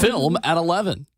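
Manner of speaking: 1950s narrator. Acted. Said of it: "You were born fifty years too late".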